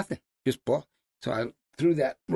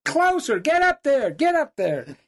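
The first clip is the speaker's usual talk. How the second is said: high, loud retold order; urging shout; 12 semitones higher, 5 dB louder, slower than usual. Guide egging hunter up the tree, shouting. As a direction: holler him onward, easing at the end.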